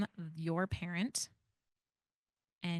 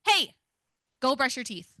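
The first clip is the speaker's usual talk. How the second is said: strong tone; 4 semitones higher, 4 dB louder than usual. Shown as a demonstration. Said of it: "I am going to use strong tone and I'm going to yell".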